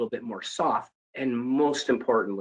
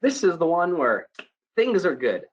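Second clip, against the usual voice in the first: higher, bright and bouncy; happy-go-lucky bubbly; 6 semitones higher, 4 dB louder than usual. Shown as a demonstration. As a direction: sound like everything's going great. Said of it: "happy-go-lucky bubbly".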